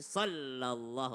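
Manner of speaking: SALLALLAHU with the first l doubled; sol-lallahu, holding the l; correct tasydid. Shown as a demonstration. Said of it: "ada tasydid".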